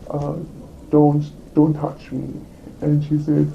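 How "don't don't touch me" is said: firm, slower warning, a bit louder; retold yell. Telling the interviewer how she warned her coworker, firm raised voice. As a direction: push her off with words, half-raised. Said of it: "I yelled out because it was really loud".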